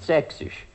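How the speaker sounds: „Sächsisch“ fließend in einem Zug, ohne Pause; „Sächsisch“ gehaucht und glatt durchgezogen; fließend gesprochen. Shown as a demonstration. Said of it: "Das Sächsische spricht sich fließend". („Sächsisch“ fließend, ohne Päuschen)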